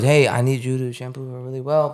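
lightly voiced Vietnamese-accent impression; mild imitation of a Vietnamese accent; Tuan's Vietnamese accent. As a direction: quote your Vietnamese coworker with a hint of his accent. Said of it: "He talk like that".

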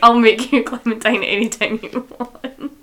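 a loud, laughing hint of French suave; mock French charm. Host re-quoting Luke to her co-host, laughing mock French charm. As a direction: play the French lover's line half laughing. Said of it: "is so French".

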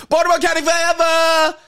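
high hometown holler; mock rallying shout. Retelling what he yelled on the count of three, mock shout. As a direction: shout it like a drunken chant.

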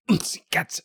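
playful breathy whisper. Pretend. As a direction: whisper it as a private joke. Whispered callback to chant.

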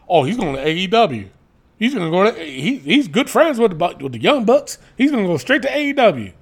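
fast mock Southern gossip; mock country accent. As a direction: rattle off the rumor like a gossiping hick. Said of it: "Why do I always do a country accent?".

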